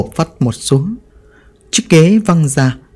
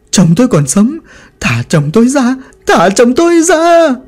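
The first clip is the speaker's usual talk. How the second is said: frantic pleading; 8 semitones higher than usual. Acted. Bà Hoan, restrained, crying out to let her husband go. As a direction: beg them to free him, losing control. Tied widow struggles wildly.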